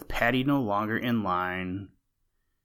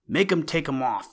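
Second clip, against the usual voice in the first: crowd shouting; 6 semitones higher than usual. A narrator's reading. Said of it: "reply from dozens of throats".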